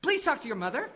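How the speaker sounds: very high, strained appeal; pained pleading. Acted. Battered god begging the maiden for help, pleading. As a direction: plead for rescue, voice pushed right up.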